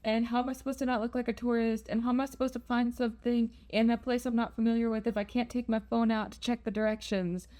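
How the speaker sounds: mildly anxious run of what-if questions; a touch of fretting, words tumbling out; paranoid self. Retold or imitated. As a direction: rattle off worries, imitating a paranoid inner voice. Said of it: "my paranoid self was like".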